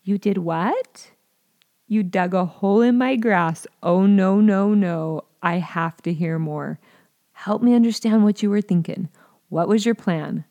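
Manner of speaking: calm curious questions about the hole. Shown as a demonstration. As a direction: lead with interest, not anger. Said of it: "Lead with curiosity".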